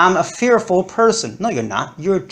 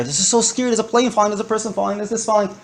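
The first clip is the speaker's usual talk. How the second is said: mock fear; 4 semitones higher, much faster than usual. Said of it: "showed visible expressions of fear".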